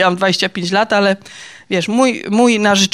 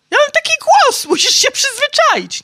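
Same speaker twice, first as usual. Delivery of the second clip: lightly voiced husband, higher and a touch louder; mock booming husband; 3 dB louder than usual. Husband tells wife to get used to his voice, lightly voiced. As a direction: imitate the husband explaining his big voice, half-joking. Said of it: "I on mówi".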